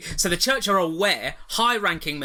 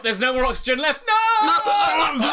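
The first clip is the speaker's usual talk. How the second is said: mock panic; 10 semitones higher, 4 dB louder, slower than usual.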